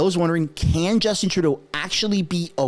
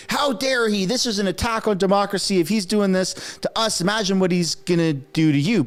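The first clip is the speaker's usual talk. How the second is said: imitated indignant protest, pitched up; mock outrage; 4 semitones higher than usual. Liberals decrying an attack on democracy, mock outrage. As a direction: play the scandalized politician.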